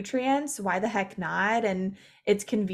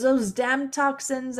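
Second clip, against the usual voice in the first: mock dramatic; 4 semitones higher, slower than usual. Mocking toxin obsession.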